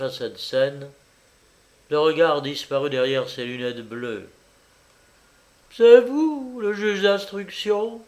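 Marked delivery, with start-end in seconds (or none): 5.7-8.0 high, mildly breathless question; a touch of agitated panting. A narrator's reading. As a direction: ask it urgently, pitched high. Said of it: "dit-elle haletante".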